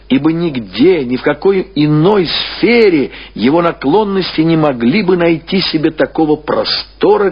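normal talking voice

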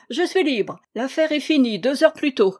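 joyful. Acted. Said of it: "tout joyeux".

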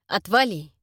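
a short, sharp retort; snapping back. Acted. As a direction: bite back at the monster. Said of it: "огрызнулся Джерард".

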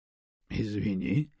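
low, slow smirking sorry; a dry chuckle of an apology. Acted. Stone smirks an apology at the offended Raven. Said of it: "усмехнулся Камень".

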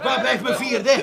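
slow, laughing tipsy plea; jolly slurred request. Acted. Asks for another drink.

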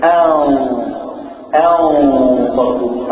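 "أن صدوق" slow, the نون hidden as a nasal hum into the ص; very slow "أن صدوق", n half hidden; ikhfa demo. Shown as a demonstration. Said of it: "أخفيتها".

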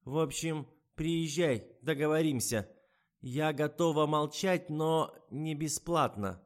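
put-on high, loud and slow old woman's voice; a greedy old woman setting her price; old woman blackmailer. A narrator's reading. Blackmailing old woman demands payment on the phone, high and loud.

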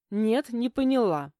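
snapping back. A narrator's reading. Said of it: "огрызнулась я".

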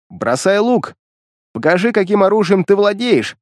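shouting. Acted. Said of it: "крикнул я".

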